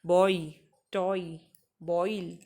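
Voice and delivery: बॉय, टॉय, बॉयल with a clear o-ee glide; spaced-out examples बॉय, टॉय, बॉयल; 'oi' diphthong demo. Shown as a demonstration. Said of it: "ये बॉय ही होता है".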